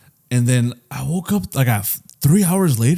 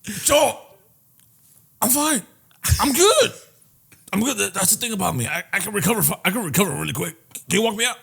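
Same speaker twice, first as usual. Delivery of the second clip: higher, soft, mocking imitation of a hungover friend; mock groggy drunk friend; 5 semitones higher, 5 dB quieter than usual. Friend mocking his hungover buddy, soft and high. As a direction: play him dazed and insisting he's fine. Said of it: "Was it really like that?".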